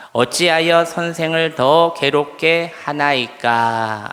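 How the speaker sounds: measured, sustained recitation; congregational scripture reading. Real, not acted. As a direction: read the verse out evenly for everyone to join, drawing out the ending. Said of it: "우리 함께 다시 한번 봉독합니다".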